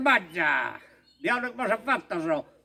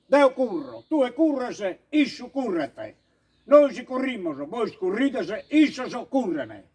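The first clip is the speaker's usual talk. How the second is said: Sardinian dialect. Shown as a demonstration. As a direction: repeat the Sardinian conjugation, laughing at the end. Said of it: "E ripetimos".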